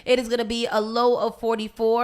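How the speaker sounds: slow, drawn-out forecast read; weather announcer. Acted. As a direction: read it like a radio weather report.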